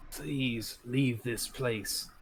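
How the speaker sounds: slow, drawn-out ghostly plea. Acted. Ghost asking intruders to leave his house, ghostly and slow. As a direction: stretch it out like a pleading phantom. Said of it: "in a very ghostly voice".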